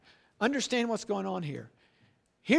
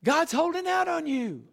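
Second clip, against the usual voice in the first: serpent tempting Eve; 8 semitones higher than usual. Retold or imitated. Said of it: "He says to Eve there".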